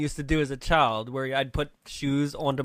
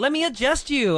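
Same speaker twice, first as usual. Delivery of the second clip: higher sweet offer; eager helper; 8 semitones higher, 4 dB louder than usual. Retold or imitated. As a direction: overeager helpful voice. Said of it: "she's like".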